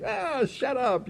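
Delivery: high, drawn-out mock annoyance; slow, hammed-up brush-off; retold angry dismissal. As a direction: wave her off crossly, without volume. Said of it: "he's all mad and everything".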